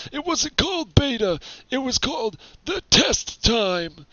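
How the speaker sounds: a hint of a creaky old gamer; lightly voiced old man bragging. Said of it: "with this old man voice".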